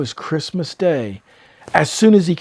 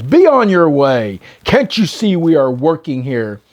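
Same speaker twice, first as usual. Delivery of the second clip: louder, slowish angry call out the window; shouting; 4 dB louder than usual. Acted. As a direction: chase them off with a shout. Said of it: "shouted to the carolers".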